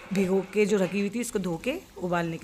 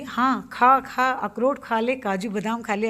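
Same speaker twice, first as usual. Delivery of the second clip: sarcastic nagging; 3 semitones higher, 4 dB louder, slower than usual. Retold or imitated. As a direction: tease her for snacking on the nuts. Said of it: "वो देखती ना तो बोलती थी".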